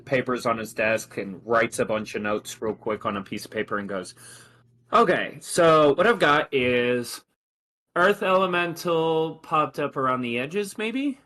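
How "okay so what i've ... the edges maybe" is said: higher, measured lieutenant's voice, slowing at the end; officer's voice. Acted.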